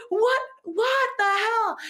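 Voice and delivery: high, slow laughing cry of disbelief; laughing shock. Retold or imitated. Retelling the shock to the host, laughing. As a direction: break into laughter while asking.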